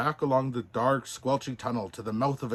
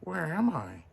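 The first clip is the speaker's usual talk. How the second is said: shuddering; 5 semitones higher than usual. Acted. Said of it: "wondered Pinocchio with a shudder".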